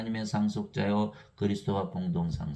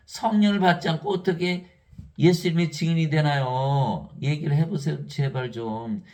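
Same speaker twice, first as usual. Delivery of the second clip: much higher and louder, slowing down on the end; loud pleading question; 4 semitones higher, 6 dB louder than usual. Real, not acted. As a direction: demand an answer. Preacher pleads with the congregation.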